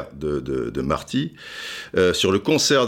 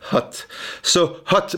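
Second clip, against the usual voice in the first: sultry whisper; 9 semitones higher, slower than usual. Acted. Sultry aside.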